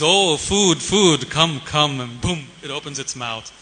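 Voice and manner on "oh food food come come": a hint of an eager crocodile, louder; lightly voiced crocodile spotting a meal; eager, hungry call to prey. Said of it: "looks at you and says".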